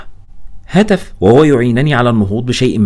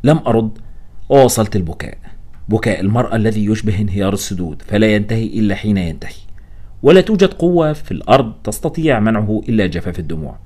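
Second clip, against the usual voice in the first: ordinary delivery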